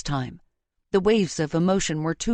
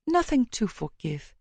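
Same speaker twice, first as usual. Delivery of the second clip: bleary murmur; 4 semitones higher, 3 dB quieter than usual. A narrator's reading. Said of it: "It came out bleary".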